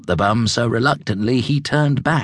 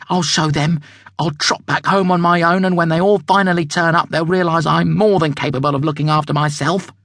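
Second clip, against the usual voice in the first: put-on young zebra thinking; 5 semitones higher, faster than usual. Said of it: "thought Julius".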